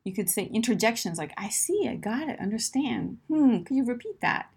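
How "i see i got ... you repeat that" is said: attentive listening. Shown as a demonstration. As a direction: show you are following along. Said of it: "use expressions to show that you're, you're listening".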